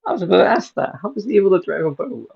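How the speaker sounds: loud and high, eager; excited outburst. Real, not acted.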